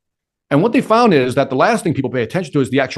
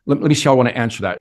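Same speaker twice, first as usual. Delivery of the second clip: hesitant filler. Shown as a demonstration. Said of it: "thinking and hesitating".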